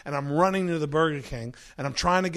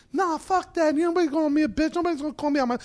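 much higher, indignant outburst; offended yell; 12 semitones higher, 5 dB louder, faster than usual. Retold or imitated. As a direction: bristle at being insulted. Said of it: "offended brother shouting".

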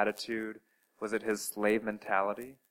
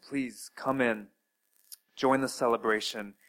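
pleading father. Acted. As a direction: plead mildly with a son to come in. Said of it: "the father's pleading with him".

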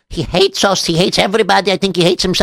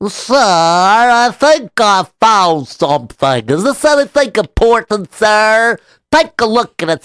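pestering officer; 4 semitones higher, slower than usual. Acted.

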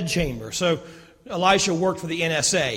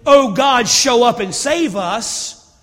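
loud, higher desperate cry to God; mock panicked prayer; 4 semitones higher, 8 dB louder, slower than usual. Pastor mocking a panicked prayer, loud and high. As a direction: ham up a frantic plea. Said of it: "He doesn't pray".

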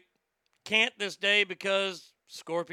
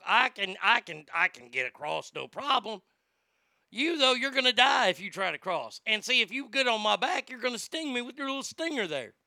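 nervous frog. Acted. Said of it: "The frog's like".

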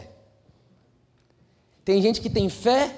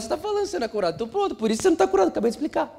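normal talking voice

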